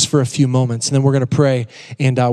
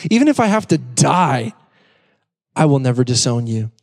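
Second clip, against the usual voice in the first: dramatic Peter. Retold or imitated. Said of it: "I love how dramatic Peter is".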